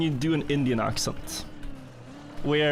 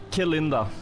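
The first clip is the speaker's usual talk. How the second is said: "Que linda" with a Spanish accent; Spanish-influenced pronunciation. Real, not acted. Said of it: "That's Spanish".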